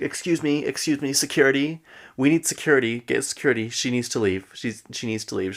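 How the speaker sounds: retelling an upset demand for help; retold upset. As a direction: act out an agitated call for security. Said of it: "gets even more upset".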